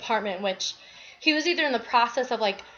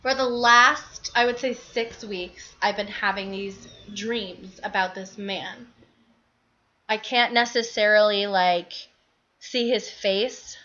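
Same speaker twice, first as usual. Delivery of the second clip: out of breath from the stairs; short of breath, pausing between phrases; shallow breathing. Real, not acted. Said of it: "Sorry, I'm out of breath".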